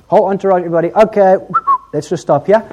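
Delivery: loud, acted group command; calling a halt. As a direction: call the whole party to stop. Acts Jesus halting the entourage.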